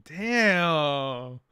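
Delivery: mock amazed outburst. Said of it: "I'm like".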